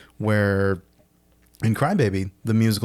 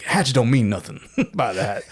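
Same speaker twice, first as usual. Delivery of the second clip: quote; 3 semitones higher than usual. Retold or imitated. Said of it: "he's like".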